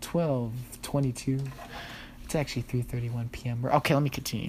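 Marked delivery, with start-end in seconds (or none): 0.0-1.4 slow, smooth late-night DJ voice; mock radio announcer, slow; smooth radio host. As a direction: croon it like a jazz station host. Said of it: "you want me to read slowly?".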